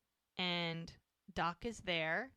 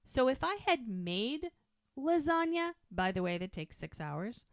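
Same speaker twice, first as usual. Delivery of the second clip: mock indignant disbelief; 4 semitones higher than usual. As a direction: pile on the outrage, building to the question. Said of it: "She's like".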